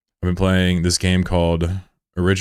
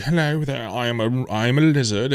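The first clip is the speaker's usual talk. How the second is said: lizard character; 5 semitones higher than usual. Retold or imitated. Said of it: "he was like".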